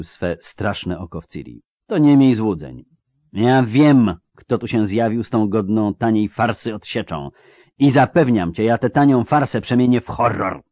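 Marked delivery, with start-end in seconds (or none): 1.9-10.6 raised, hard-driven threat; menacing wizard. Acted. Wizard threatening Ciri about her would-be rescuers, menacing. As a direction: threaten with forceful certainty.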